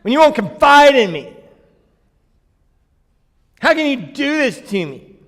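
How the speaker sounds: high put-on woman's voice, hurt; girl voice. Delilah reproaching Samson for his love in a high girl voice. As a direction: plead it in a high girlish voice. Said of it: "I can't even do the girl voice for very long".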